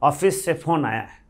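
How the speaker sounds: put-on UP Bihar accent. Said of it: "UP Bihar वालों से आप बात करो".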